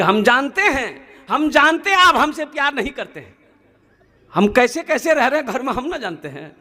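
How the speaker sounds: lightly acted aggrieved wife, pitch climbing; complaining wife. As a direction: whine playfully that you are unloved. Wife complains to husband of no love. (शिकायत करती बीवी का हल्का अभिनय)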